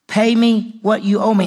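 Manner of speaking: loud insistent demand. Acted. Slave demanding eighteen dollars, angry loud demand. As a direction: squeeze the debt out of him. Slave choking his debtor.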